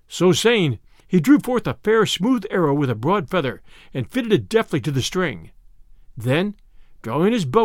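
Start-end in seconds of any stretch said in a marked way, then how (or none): none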